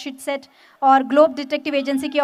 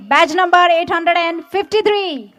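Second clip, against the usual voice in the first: slow, louder, every number spelled out; slow emphatic repeat; 3 semitones higher, 5 dB louder, much slower than usual. Real, not acted. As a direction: repeat it slowly for the whole crowd. Badge number repeated for the crowd.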